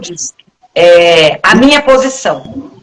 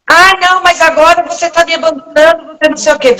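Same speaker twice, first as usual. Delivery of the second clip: whiny reproach; 6 semitones higher than usual. Retold or imitated. Mocking someone's reproach.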